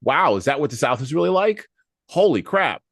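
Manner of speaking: a wide-eyed outsider gawking at the South; mock amazed kid. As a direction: kid in Boston reacting to a film, mock amazement. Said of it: "some kid watching the movie ... going".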